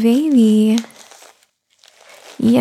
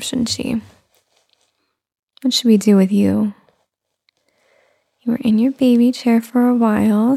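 tired new mother. Acted. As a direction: coo gently to a little one. Soft mommy roleplay throughout.

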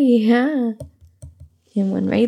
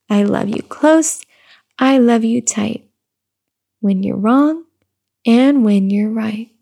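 slow sing-song read-aloud; reading to baby; 3 dB louder than usual. Acted. Mother reading a rhyming book to her baby, slow sing-song. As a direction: lilt the rhyme gently for the baby.

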